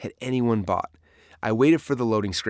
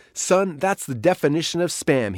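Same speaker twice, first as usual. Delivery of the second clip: retold yell; 6 semitones higher than usual. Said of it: "he yelled".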